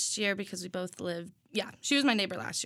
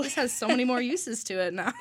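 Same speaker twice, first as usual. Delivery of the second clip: laughing; 2 semitones higher than usual. Real, not acted. Laughing while quoting herself.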